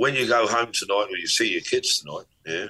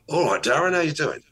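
higher, brighter-pitched greeting; pitched-up friendly hello; going up; 7 semitones higher than usual. Shown as a demonstration. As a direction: lift the pitch right up on the greeting. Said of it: "I can go up".

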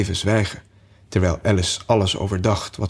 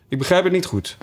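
high, carefully polite voice; as polite as possible; 9 semitones higher, faster than usual. A narrator's reading. Alice confused by the Hatter, as polite as possible. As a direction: pitch it up and keep it courteous. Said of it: "zei ze zo beleefd als dat ze kon".

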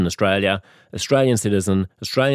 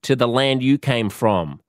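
mock xenophobic; 3 semitones higher, slower than usual. What he wouldn't say to a foreign driver, mock hostile. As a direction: spell it out like a hammed-up bigot. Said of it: "I wouldn't say".

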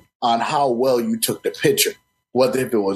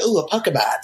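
higher-pitched "ooh" of discovery; mock excitement; 7 semitones higher than usual. Player spotting a Pokemon while running around, mock excited. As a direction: act out spotting something exciting.

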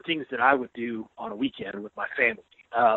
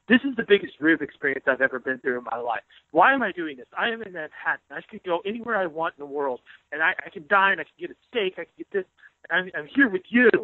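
mock furious rant; 3 semitones higher than usual. Columnist mimics furious colleague at pizza place, mock outrage. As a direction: imitate a colleague fuming over cheap pizza. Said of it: "he's like, really got furious".

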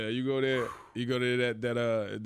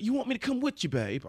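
put-on high girlfriend voice; 12 semitones higher than usual. Girlfriend voiced in retold story.

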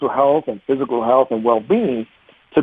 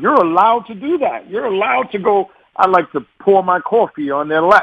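animated; 5 semitones higher than usual. Acted. Venting anger is allowed.

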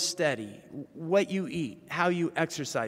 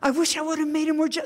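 high, fast, louder widow voice; repeating, higher; 12 semitones higher, 5 dB louder, much faster than usual. Retold or imitated. Widow repeats her regret to a puzzled Paul, high and rushed. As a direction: blurt it out again, higher and faster.

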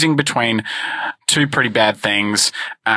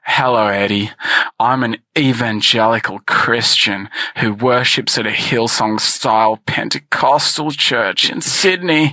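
sexy contestant voice. Acted. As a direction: play a smooth contestant trying to sound sexy. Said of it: "His voice is making me uncomfortable".

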